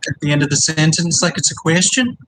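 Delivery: Welsh lilt rising like a question; bad Welsh accent. Shown as a demonstration. Explaining the upward Welsh inflection, bad Welsh accent. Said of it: "That's not a very good Welsh accent".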